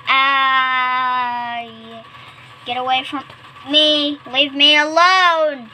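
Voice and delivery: loud, high shout to back off; drawn-out cry building to a high shout; frightened yell. Acted. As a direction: yell it to drive something away. Acted scared shout in story.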